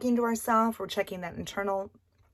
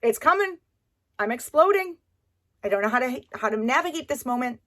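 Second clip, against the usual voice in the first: overwhelmed mom; 5 semitones higher, 6 dB louder than usual. Retold or imitated. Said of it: "be like".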